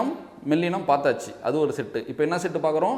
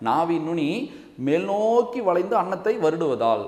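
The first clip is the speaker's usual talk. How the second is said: slow explanation; slower than usual. Shown as a demonstration. Teacher drawing out tongue movement.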